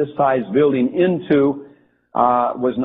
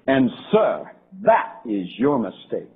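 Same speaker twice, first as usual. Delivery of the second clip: firm rebuke; 2 semitones lower, 3 dB quieter, slower than usual. Retold or imitated. Prince firmly rebukes the general.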